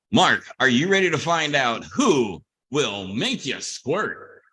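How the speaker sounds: slow, punched-up game show intro; game show announcer. Acted. Host to contestant launching the squirt game, showy announcer. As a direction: announce it big, drawing out each phrase.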